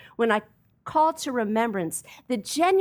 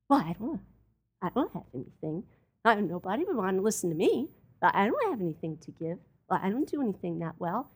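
low, fast, softer mumbling of excuses; mopey self-pity; 4 semitones lower, 4 dB quieter, faster than usual. Retold or imitated. Preacher imitating his congregation's self-doubt, mopey mumble. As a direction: mumble like you've given up on yourself. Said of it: "that's how you talk".

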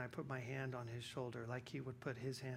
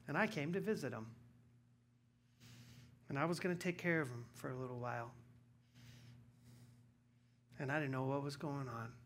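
ordinary talk, nothing marked

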